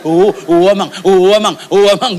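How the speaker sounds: rhythmic imitated Batak crooning to a baby; lightly voiced Batak dad; Batak father soothing. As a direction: rock the baby with repeated coos. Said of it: "itu orang Batak tuh".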